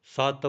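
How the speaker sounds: ਸਤ said heavily with a doubled t; heavy doubled consonant. Shown as a demonstration. Teacher correcting how learners recite, heavy doubled t in ਸਤ. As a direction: lean on the t of ਸਤ as "satt". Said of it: "ਭਾਰਾ ਬੋਲਣਾ ਹੈ".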